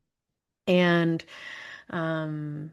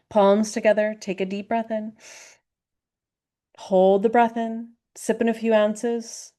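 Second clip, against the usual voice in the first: raised, energized breath-hold cues; breathwork coaching; 3 semitones higher, 3 dB louder than usual. Shown as a demonstration. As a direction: cue each breath hold with lifted energy.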